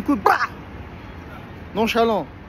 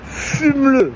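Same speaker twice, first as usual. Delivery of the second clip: inner voice urging; 7 semitones higher, 5 dB louder, much slower than usual. Acted. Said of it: "l'autre voix qui dit".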